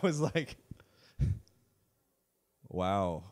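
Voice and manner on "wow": low, soft mock-impressed reaction; patronizing. The guy reacting to her son speaking Arabic, patronizing. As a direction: feign being impressed, quietly condescending. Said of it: "Like, so patronizing".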